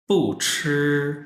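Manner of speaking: पू ची said slowly as a model for repeating; model pronunciation. Shown as a demonstration. Teacher to students, modelling पू ची slowly for repetition. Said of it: "हम ऐसा repeat करेंगे".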